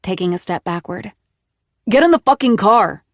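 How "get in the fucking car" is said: loud, higher angry hiss. A narrator's reading. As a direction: spit the order out furiously. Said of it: "Nick hissed".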